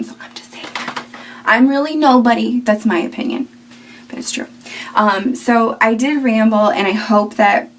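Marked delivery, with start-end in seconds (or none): 0.0-0.7 hushed whisper, voice dropped right down; conspiratorial whisper. Real, not acted. Vlogger whispering to viewers that others copy Billy Blanks. Confiding a cheeky aside. 4.1-4.5 half-whispered. Real, not acted. Finishing the cheeky aside.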